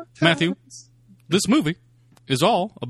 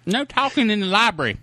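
librarian voice; 8 semitones higher, 3 dB louder than usual. Acted. Librarian scolding in skit.

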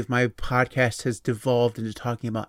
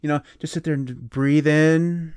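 mock therapist; 3 semitones higher than usual. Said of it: "I should definitely take over for Doctor Phil".

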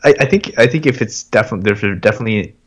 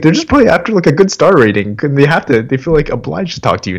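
put-on higher, teasing girlfriend voice, climbing to a squeak; teasing wife; 6 semitones higher than usual. Girlfriend teasing him about bothering Uber drivers, high mock voice. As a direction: needle him for chatting up drivers. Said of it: "She's like".

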